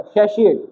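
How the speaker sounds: सेशिएट with SH in the middle; सेशिएट, middle syllable softened to "shee"; pronunciation with SH. Shown as a demonstration. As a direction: say सेशिएट with "shee", not "tee". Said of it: "श आता है इसमें".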